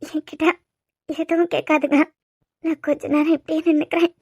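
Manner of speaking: speaking through tears; tearful. Acted. Asks Guru to let her stand awhile, tearful. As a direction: cry while begging to be left alone. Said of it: "சரி, இப்ப எதுக்கு அழுற?".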